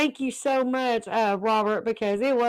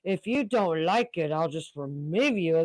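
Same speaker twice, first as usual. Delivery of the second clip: mock serious; 4 semitones lower than usual. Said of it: "he got real serious".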